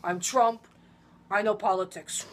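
lightly voiced Trump boast; a hint of Trump bragging; light Trump impression. Friend practising a Trump impression, lightly voiced. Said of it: "that's my Trump impression".

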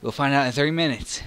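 high, loud exasperation; exasperated. Real, not acted. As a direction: exclaim it fed up. Exasperated outburst.

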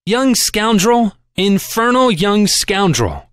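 slow, amused grumble to himself; slow fond mutter; fond murmur. A narrator's reading. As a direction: savour the words slowly, half admiring. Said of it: "Cappy murmured to himself".

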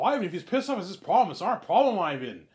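high, loud, laughing scoff; Peter dismissing it. Acted. Peter telling Ivan the actor's anger is not his problem, loud and laughing. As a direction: brush it off and laugh.

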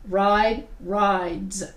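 "Ride" then "rides" with a buzzing Z; Z ending demo. Shown as a demonstration. Teacher models rides with a Z. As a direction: say "rides" ending on a clear Z sound. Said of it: "you just add a Z".

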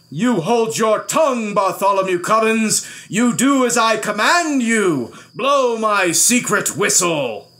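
high, forceful royal order; imperious king shouting; angry command. A narrator's reading. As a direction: silence the boy and command him. King angrily commands the boy.

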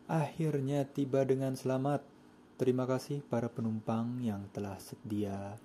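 measured, formal announcer delivery; bus arrival announcement. Pretend. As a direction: address the passengers like bus crew. Plays bus crew announcing arrival to passengers. (gaya pengumuman kru bus kepada penumpang)

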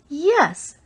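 a sharp, high, loud yes; flaring up. A narrator's reading. Dalisa flaring up at Race over arms for the Dry Towns, sharp and loud. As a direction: snap it back in a burst of anger. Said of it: "she flared at me".

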